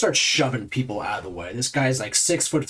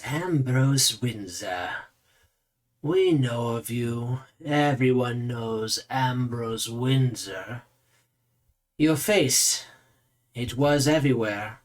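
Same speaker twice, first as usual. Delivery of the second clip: slow, self-absorbed character voice; admiring mirror-gazer; slower than usual. Acted. Vain man greets a famous face while perfecting his own, slow and admiring. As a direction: draw the words out, lost in your own reflection.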